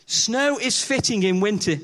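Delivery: a measured, slow reading of the verse; slow scripture reading. Shown as a demonstration. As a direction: read "Snow is fitting in winter" slowly, weighing each word. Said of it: "verse one says this".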